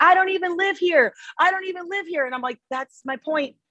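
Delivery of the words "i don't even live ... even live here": play-acted furious screaming, high-pitched and angry. Recounting a pregnant woman coming at them to fight: retelling someone screaming. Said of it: "she's like screaming at me".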